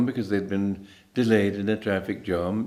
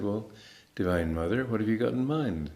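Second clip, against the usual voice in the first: softer, calmly trusting inner prayer; calm quiet prayer; 5 dB quieter than usual. Retold or imitated. Teacher recalls calmly asking Divine Mother at the airport, soft and calm. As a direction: let it go, ask softly and calmly. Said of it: "calmly waited and said".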